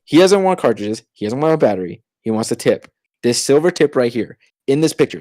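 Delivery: insistent, mildly exasperated re-enactment; retold frustration. Clerk correcting coworkers about the tip, retold frustration. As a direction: spell it out, a touch fed up. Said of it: "I'm getting so frustrated".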